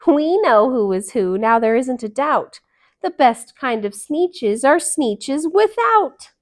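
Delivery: loud proud shout. Acted. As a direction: crow it out to the whole beach. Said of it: "they let out a shout".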